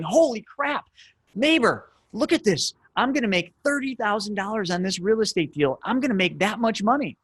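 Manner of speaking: high, thrilled sales pitch to the neighbor; excited pitch. Acted. Showing the neighbor a thirty thousand dollar deal, high and thrilled. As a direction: gush over the deal like you can't believe it. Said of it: "in an excited fashion like this".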